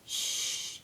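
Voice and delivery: soft unvoiced shush. Monitor shushing the talking students, soft hiss. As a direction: hush the room with a shh. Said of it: "she's like".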